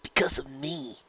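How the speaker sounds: soft, guilty little voice. A narrator's reading. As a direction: mumble it in guilt. Spike guilty.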